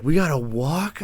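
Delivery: incredulous echo, rising at end; surprised question. Retold or imitated. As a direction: repeat it back in disbelief.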